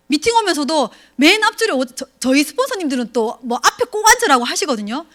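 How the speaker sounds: ordinary talk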